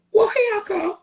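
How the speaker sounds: high, giggling tease; playful laughing. Real, not acted. Playful answer to husband.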